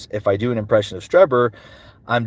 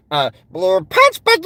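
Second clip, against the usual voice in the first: Stitch; 6 semitones higher, 3 dB louder than usual. Acted.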